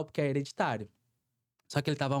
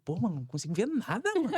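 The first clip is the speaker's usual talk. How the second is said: inveja; 5 semitones higher than usual. Retold or imitated. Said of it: "Eu ficava com inveja".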